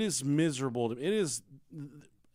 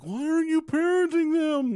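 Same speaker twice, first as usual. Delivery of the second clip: high, loud nagging wife; 8 dB louder than usual. Retold or imitated. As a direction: scold him like a fed-up wife. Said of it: "my wife's like".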